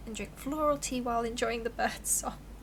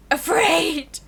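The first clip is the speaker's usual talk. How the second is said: high yelped "Afraid!" like a fleeing animal; animal's yell; 6 semitones higher, 11 dB louder than usual. Acted. Wild animal yelling as it runs away, high loud yelp. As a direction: squeal "Afraid!" and bolt.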